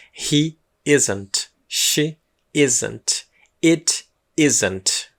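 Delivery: careful He isn't with falling tune; model pronunciation. Shown as a demonstration. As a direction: model each form for students to copy. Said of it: "Pronúncia".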